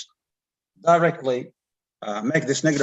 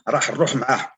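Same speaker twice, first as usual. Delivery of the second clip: Algerian Arabic dialect; much faster than usual. Shown as a demonstration. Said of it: "in Algerian dialect".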